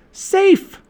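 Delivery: high, loud cheer; triumphant shout. A narrator's reading. Annie as the sub surfaces, shouting. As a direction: shout it out in relief. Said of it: "shouted Annie".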